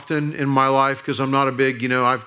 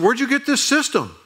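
amazed question; 10 semitones higher than usual. Retold or imitated. Impressed by booming stereo.

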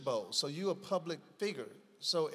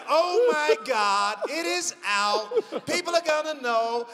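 panicked inner voice; 8 semitones higher, 7 dB louder than usual. Retold or imitated. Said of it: "So now I'm like".

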